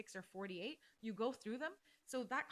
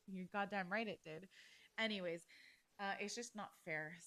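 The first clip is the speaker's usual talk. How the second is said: usual speaking voice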